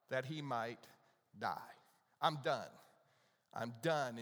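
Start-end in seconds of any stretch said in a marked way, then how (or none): 2.2-2.7 despairing Elijah. Retold or imitated. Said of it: "And you can hear the emotion". 3.5-4.2 despairing Elijah, lower. Retold or imitated. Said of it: "And you can hear the emotion".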